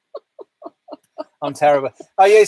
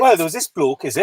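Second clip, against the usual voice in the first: put-on Welsh accent. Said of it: "Six out of ten for the Welsh accent".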